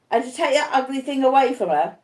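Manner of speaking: high, fearful asking; anxious question. Acted. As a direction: ask with lingering dread. Arthur anxiously questioning wife.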